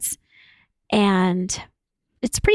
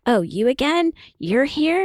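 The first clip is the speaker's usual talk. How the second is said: mock irritation; 4 semitones higher than usual. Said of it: "so much violence".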